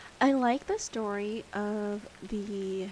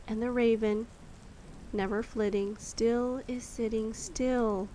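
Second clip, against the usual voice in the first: poem reading. Acted. Reading The Raven aloud.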